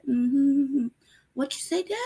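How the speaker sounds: high, innocent pet voice; voicing the cat. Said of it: "just like".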